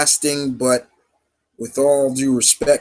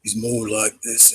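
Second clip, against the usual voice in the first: put-on slow, softer British accent; a measured British accent, toned down from Cockney; Mark Strong impression; 3 semitones lower, 6 dB quieter than usual. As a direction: do a soft-spoken British actor. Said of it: "Mark Strong, when he talks".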